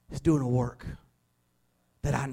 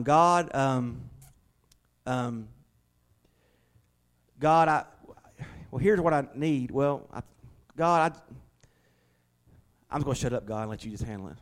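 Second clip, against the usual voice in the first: stammering prayer. Pretend. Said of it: "Sometimes we are like this".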